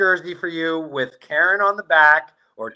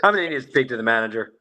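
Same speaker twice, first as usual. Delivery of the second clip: mock Karen; 3 semitones lower, faster than usual. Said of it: "You are the Chad or the Karen".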